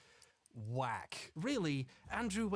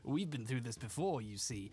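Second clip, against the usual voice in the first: put-on British accent. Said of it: "That's my British accent".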